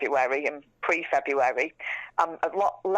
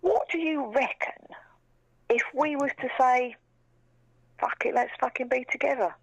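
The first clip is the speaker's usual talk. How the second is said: retold whisper; 6 semitones higher than usual. Retells Charlie's proposal hint.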